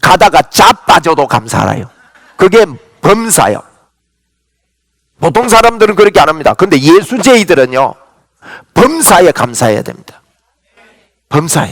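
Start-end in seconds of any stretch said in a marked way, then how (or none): 0.0-1.9 put-on Korean country-dialect delivery. Explaining a Bible word's meaning, saying it in a Korean regional dialect. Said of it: "제가 사투리로 한번 하겠습니다".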